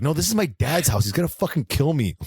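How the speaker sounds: hammed-up alarm; mock panic. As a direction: play up the dread of being in trouble. Acts out a character panicking about the house.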